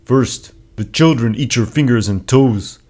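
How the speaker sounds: deadpan tribal warrior. Acted. Laidelic deadpan cannibal joke.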